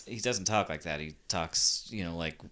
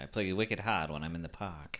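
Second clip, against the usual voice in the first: Boston accent. Shown as a demonstration. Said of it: "you don't drop every single one".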